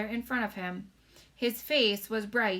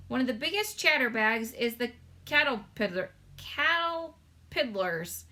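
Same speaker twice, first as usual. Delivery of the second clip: lightly voiced gentle giant, higher; BFG voice; 3 semitones higher, 3 dB louder than usual. Giant telling Sophie about faraway music, gently voiced.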